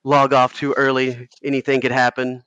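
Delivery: lightly whiny, raspy host voice; a hint of a whiny, raspy host; Georgia Tech impression. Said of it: "I'm gonna do my best Georgia Tech impression here".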